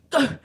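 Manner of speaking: short imitated huff; frustrated groan. Boyfriend rebuffed on the couch, frustrated huff. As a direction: grunt it out as if thwarted. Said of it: "frustrated and pissed off".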